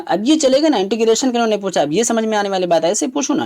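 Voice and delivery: quick, pleased lift in the voice; now that's a proper question, say it gladly; relieved approval. Real, not acted. Teacher pleased the exam finally asks clearly, relieved approval.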